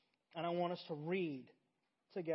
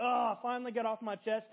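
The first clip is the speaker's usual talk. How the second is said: acted relief; 4 semitones higher, 5 dB louder than usual. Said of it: "just a rush of peace".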